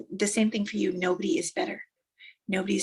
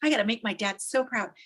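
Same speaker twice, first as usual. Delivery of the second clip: lightly acted eager excitement; a touch of breathless anticipation; excited son; 4 semitones higher than usual. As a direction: bubble over like a proud young runner. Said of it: "he was so excited".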